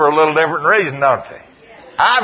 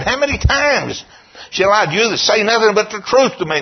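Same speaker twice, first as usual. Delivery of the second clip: exasperated demand; 7 semitones higher than usual. Retold or imitated. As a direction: plead it like a king at the end of his patience. King repeats demand, exasperated.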